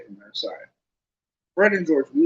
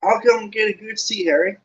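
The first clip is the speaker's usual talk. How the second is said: high, louder piping call; 9 semitones higher, 5 dB louder than usual. A narrator's reading. Colin calling after Harry, high piping. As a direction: pipe it after him brightly. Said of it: "in a piping voice".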